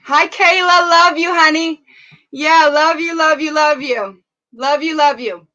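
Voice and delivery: bright greeting. Real, not acted. Greeting viewers on livestream.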